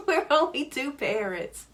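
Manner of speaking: amused laughing aside. Real, not acted. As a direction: chuckle it out as a joke. Laughing joke about only two parents.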